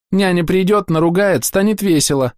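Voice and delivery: put-on high little girl, sniffly; tearful child. A narrator's reading. Girl sniffles about her nanny, high and tearful. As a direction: whine it through tears.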